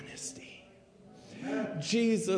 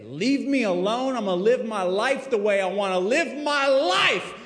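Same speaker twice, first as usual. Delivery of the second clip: pushy, defiant brush-off; defiant refusal; 3 semitones higher, 5 dB louder than usual. Pretend. Sinner telling God to leave him alone, defiant. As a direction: shove God away, stubborn.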